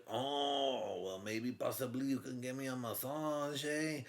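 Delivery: a hammed-up sleazy flirt, building up to a high squeak; slimy flirting cop, rising to a squeal. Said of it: "And he's like".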